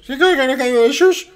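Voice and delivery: very high, loud comic squeal; squeaky hammed-up film quote; film dialect impression. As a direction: mimic the silly movie voice at full pitch. Film line in silly high voice.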